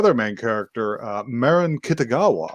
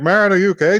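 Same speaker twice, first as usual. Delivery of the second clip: concerned friends; 8 semitones higher, 6 dB louder, much faster than usual. Retold or imitated. Friends worry about injured girl.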